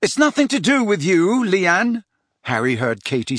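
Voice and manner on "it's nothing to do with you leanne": arguing sharply. Acted. Girls arguing over package.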